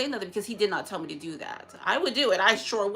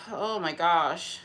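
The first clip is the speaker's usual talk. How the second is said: slow, exasperated sigh of words; weary, drawn-out frustration; irritated; 3 semitones lower, much slower than usual. Real, not acted. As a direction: sigh it out, fed up. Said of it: "I'm just so irritated".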